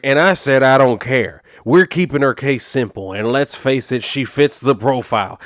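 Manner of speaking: words squeezed out of one side of the mouth; lightly voiced sheriff with chew in his lip, dismissive; tobacco-chewing cop voice. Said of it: "talking like that".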